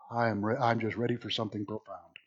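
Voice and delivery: sigh, then low, very soft voice; low, soft aside; hushed anticipation. Real, not acted. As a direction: drop to a hush, waiting for something profound. Mock-awed hush before Jonah's first words.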